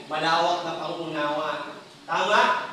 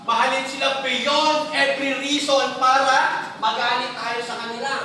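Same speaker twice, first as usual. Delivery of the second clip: higher, louder, slowed appeal; louder, higher preaching push; raised preaching voice; 4 semitones higher, 5 dB louder than usual. Real, not acted. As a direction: lift it and plead with the crowd. Preaching climax.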